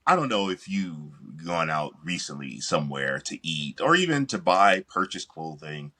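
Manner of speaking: choppy, dropping-out audio; connection breaking up. Real, not acted. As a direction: voice cutting in and out over a bad line. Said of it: "you're breaking up".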